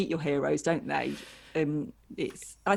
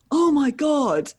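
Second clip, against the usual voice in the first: higher, louder, slowed-down awestruck "Oh my God"; starstruck gasp; 8 semitones higher, 7 dB louder, slower than usual. Retold or imitated. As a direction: retell the fan's stunned, drawn-out gasp. Guy recognising her, starstruck.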